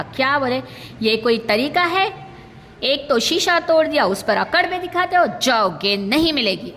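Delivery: mock indignant owner, pitch rising as he scolds; angry house owner. House owner scolding the boy over the broken window: mock angry, rising pitch. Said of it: "गुस्से से कहा".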